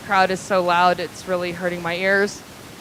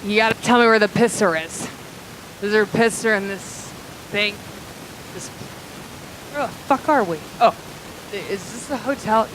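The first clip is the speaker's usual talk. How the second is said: acted drunk lurching between stray phrases; mock drunken rambling; imitated drunk. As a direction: stumble through it with long, boozy pauses. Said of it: "we do speak alcoholic here".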